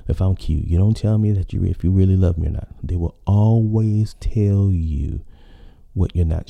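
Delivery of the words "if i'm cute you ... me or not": mock list of grievances rattled off fast; a hint of an annoyed girlfriend; imitating a partner's complaints. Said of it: "because they're saying".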